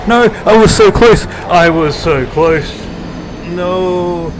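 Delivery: loud frustrated cry; frustrated yell. Real, not acted. Dying to boss in game.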